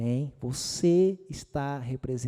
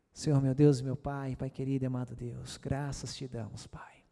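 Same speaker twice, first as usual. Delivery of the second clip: hushed prayer. Acted. Opens prayer softly.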